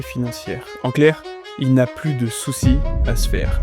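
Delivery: scripted podcast intro narration over music; présentation de podcast. Acted. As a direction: introduce the guest like a storyteller, with measured phrasing. (narration d'introduction de podcast, posée)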